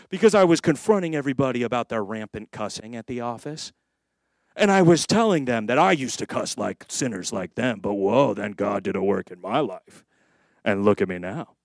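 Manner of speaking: acting out a pious complainer; self-righteous office worker.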